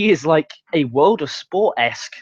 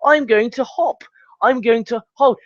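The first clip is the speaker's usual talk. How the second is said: spelling it out; 6 semitones higher than usual. Acted. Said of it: "does not take a brain surgeon to think".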